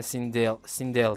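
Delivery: "Sindel" with its e between ı and i; in-between vowel. Shown as a demonstration. Gamer explaining English reading, "Sindel" with an in-between vowel. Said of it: "Normalde öyle okuyorlar yani".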